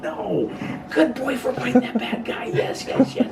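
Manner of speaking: put-on high, laughing good boy praise; enthusiastic praise. Shown as a demonstration. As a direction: gush over the dog with delight. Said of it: "really watch your tone".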